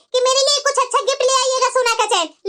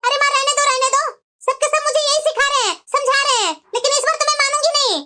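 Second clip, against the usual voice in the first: higher-pitched, stubborn indignation; angry protest; 3 semitones higher than usual. Acted. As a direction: brush mother off, refusing to give in. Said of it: "तो फिर क्यों इतना गुस्सा हो रही है?". (गुस्से में ज़िद करते हुए)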